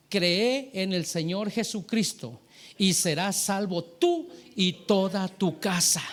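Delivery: slow, deliberate recital of scripture; drawn-out, solemn quotation; measured scripture quote. Real, not acted. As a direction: give each phrase of the promise its weight. Recites the promise from Acts.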